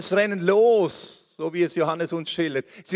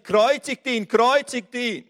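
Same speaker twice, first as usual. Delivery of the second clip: crowd cry; 5 semitones higher than usual. Acted. Crowd shouting crucify.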